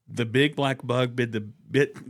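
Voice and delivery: tongue twister drill. Shown as a demonstration. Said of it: "These are vocal exercises".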